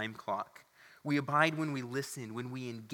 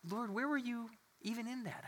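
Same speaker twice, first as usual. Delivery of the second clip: pleading prayer; 10 semitones higher, 4 dB quieter than usual. Retold or imitated. Retold self-rebuke in prayer.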